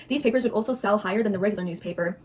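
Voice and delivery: talking through a mouthful; words around a bite of burrito; mouth full. Real, not acted. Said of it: "just like how you stuffed your mouth full".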